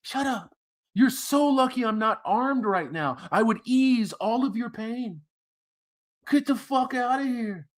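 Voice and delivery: hammed-up outburst of the crying woman; mock woman. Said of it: "she cracks like a fucking walnut".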